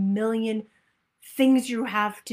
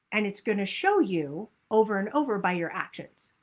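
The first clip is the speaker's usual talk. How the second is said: ordinary talk, nothing marked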